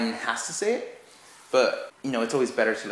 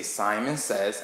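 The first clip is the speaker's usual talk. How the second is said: slow Simon says; much slower than usual. Shown as a demonstration. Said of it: "you have to say".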